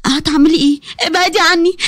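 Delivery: mild frightened pleading; frightened wife. Acted. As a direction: push her away in fear. Maryam frightened pushing her away.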